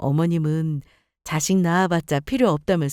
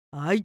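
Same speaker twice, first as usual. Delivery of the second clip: fake cough; 5 semitones lower, 4 dB quieter than usual. Mother-in-law fakes a coughing fit to guilt her son. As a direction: cough theatrically for pity.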